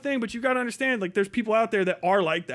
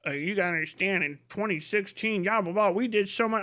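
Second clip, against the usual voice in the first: mock Democrat excuse; 2 semitones lower, 4 dB quieter than usual. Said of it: "nothing you'll tell me".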